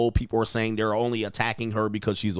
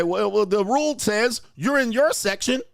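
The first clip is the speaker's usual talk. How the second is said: higher prissy mock of her excuse; mocking a petty woman; 9 semitones higher than usual. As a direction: play her rule-lawyering, pitched up. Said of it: "and then say".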